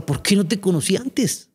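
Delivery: lightly re-enacted sob of regret; retold tearful lament. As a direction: call out the question the way he once did. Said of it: "yo lloraba y decía".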